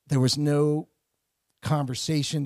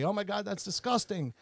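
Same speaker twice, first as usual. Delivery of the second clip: disgusted; 5 semitones higher, 5 dB quieter than usual. Retold or imitated. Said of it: "voices that I recognized say".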